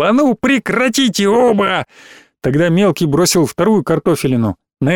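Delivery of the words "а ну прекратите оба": high, sharp yell to stop the fight. Acted. The narrator yells at both brawlers to stop fighting. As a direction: break them up with a yell. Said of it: "Я вскочил и заорал".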